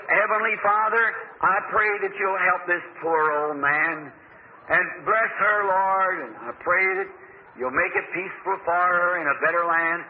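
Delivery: slow, measured prayer for consolation; re-enacted prayer over the dying; retold prayer. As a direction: pray slowly, letting the phrases stretch. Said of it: "while I was praying".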